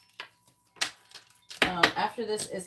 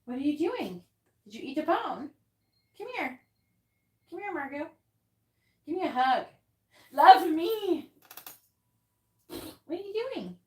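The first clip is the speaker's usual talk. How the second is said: much higher, gushing pet voice, louder on love me; 10 semitones higher, 8 dB louder than usual. Real, not acted. Owner playfully scolding her dog, high doting baby talk.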